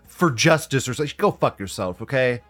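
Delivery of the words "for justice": raised-pitch mock gushing admirer; mock fan gushing. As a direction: parody a starry-eyed fan.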